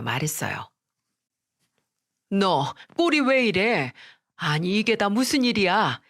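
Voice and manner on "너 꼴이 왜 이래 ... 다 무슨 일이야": mildly shocked, worried questioning; a startled mother taking in a shock; alarmed mother. Acted. Mother to her bedraggled daughter, mildly alarmed.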